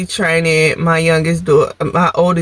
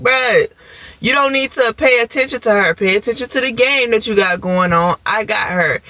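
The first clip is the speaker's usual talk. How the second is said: higher, annoyed telling off; annoyed scolding; 4 semitones higher than usual. Retold or imitated. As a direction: snap at him to leave her alone. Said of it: "And I'm just like".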